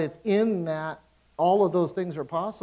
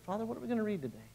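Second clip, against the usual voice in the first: soft prayer; 5 semitones higher, 8 dB quieter, much faster than usual. Retold or imitated. Simple prayer voiced.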